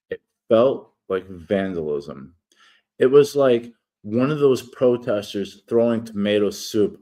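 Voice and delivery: steady read-aloud narration; reading an essay. Acted. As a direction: read the article aloud, measured. Reads his article aloud.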